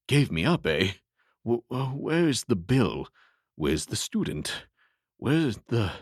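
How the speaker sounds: lightly voiced waking patient, bewildered; confused patient. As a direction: fumble for answers, half awake. Patient confused after fever.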